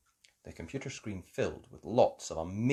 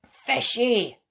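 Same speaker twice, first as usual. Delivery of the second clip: grossed out; 12 semitones higher, 7 dB louder than usual. Acted. Children smell the fish.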